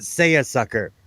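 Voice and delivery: British-style "Say a Sucker", r's dropped; lightly imitated British pronunciation; British accent. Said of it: "I heard it first on Are You Being Served".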